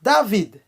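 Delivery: "David" as da-VEED, ending on d; Haitian pronunciation. Shown as a demonstration. Teacher modelling the right name, Haitian pronunciation. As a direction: say "David" with an open a and final d. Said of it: "é David".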